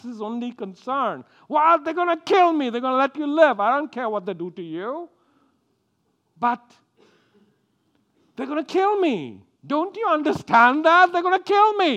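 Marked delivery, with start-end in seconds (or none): 1.5-11.9 high, loud, building hysterical whine; drama queen. Retold or imitated. Abraham panicking to his wife, a high loud hysterical drama-queen whine. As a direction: build into self-pitying panic. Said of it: "Drama queen".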